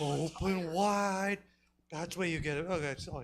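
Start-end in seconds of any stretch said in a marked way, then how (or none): 0.0-1.4 put-on slow sing-song baby talk; talking to a toddler. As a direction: coax a baby to eat. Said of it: "I am a fussy toddler".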